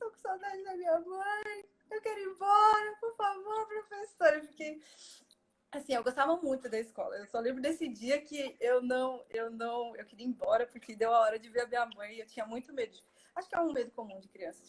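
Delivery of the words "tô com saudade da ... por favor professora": put-on shrill, very high, tearful sobbing child voice. Retelling a school day from childhood, imitating childhood crying. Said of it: "Aí eu comecei a chorar".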